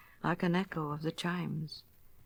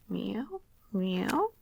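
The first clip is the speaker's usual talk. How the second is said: cat cry. Acted. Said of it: "cried Simpkin".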